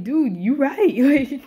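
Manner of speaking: high, loud and very slow dude you right; hammed-up reluctant concession; drawn-out agreement. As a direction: stretch out each word in stunned agreement. Grudgingly agreeing with the villain.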